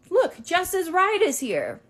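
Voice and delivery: high, slow teasing announcement; mocking classmate. Classmate joking to the group chat, teasing and slow. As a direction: tease her from the chat.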